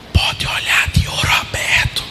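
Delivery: hushed secret whisper; leaning in to whisper. Real, not acted. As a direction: lean in and whisper it. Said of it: "Vou falar baixinho".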